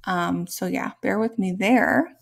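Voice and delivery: hoarse, sore-throat voice; talking through a sore throat. Real, not acted. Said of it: "sorry if I sound a bit funny".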